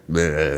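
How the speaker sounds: imitated garbled grumble; mumbled patois noise. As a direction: blurt a mock patois mumble. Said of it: "There was some kind of patois thing".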